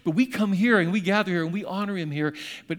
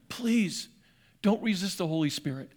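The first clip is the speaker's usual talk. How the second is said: appealing, begging. Shown as a demonstration. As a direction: plead gently with them, no shouting. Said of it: "I hear his voice appealing, begging them".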